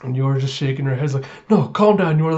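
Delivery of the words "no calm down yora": higher, louder mock fretting; flustered self-talk. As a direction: act trying to talk yourself out of panic. Yor reassuring herself in panic.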